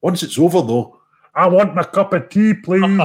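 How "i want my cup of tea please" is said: louder, higher mock demand; calling at a window. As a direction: shout it playfully through the window. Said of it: "chapping their window and saying".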